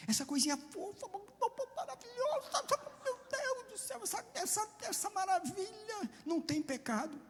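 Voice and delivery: mocking doting parent voice; mock doting cooing. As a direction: coo over the sweet baby mockingly.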